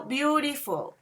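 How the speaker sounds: "beautiful" drawn out in three syllables. Shown as a demonstration. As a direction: count the syllables while saying "beautiful". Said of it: "the amount of a voice that you use".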